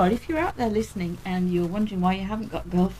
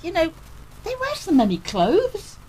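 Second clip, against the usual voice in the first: quoting daughter; 11 semitones higher than usual. Retold or imitated. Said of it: "And she said".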